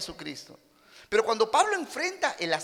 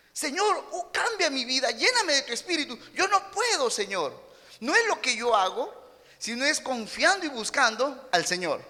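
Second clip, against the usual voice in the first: earnest prayer; 5 semitones higher than usual. Retold or imitated. Paul's fasting prayer voiced.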